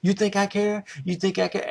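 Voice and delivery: shouted high and loud, menacing; furious threat. Retold or imitated. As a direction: spit the threat at him, voice straining.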